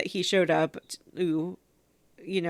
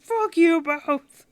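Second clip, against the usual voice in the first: mock yell; 11 semitones higher, 7 dB louder, much slower than usual. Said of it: "the guy's like".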